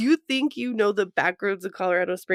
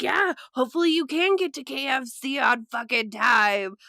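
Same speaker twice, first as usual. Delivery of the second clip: mock taunt; 5 semitones higher than usual. Road rage taunt.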